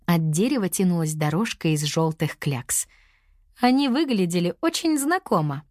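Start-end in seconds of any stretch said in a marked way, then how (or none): none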